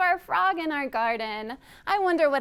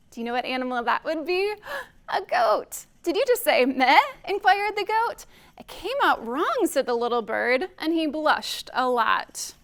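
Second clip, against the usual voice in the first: put-on animated, measured reading to children; storytime reading; 3 dB louder than usual. A narrator's reading. Reader telling children about a bird seeking friends, animated storytime. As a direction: read it like a lively picture-book storytime. Reads picture book aloud to children.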